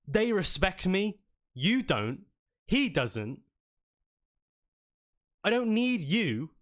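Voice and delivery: mildly impassioned declaration of independence; defiant. Acted. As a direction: stand up to your superior, stressing key words. Ricky defiantly confronts his commander.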